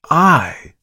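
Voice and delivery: loud, high, indignant cry. A narrator's reading. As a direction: exclaim in disbelief. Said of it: "cried the dealer".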